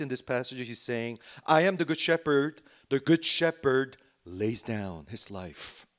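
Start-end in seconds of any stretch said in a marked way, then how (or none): 1.5-5.9 loud, emphatic preaching quote; blunt declaration. Retold or imitated. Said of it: "very, very bluntly".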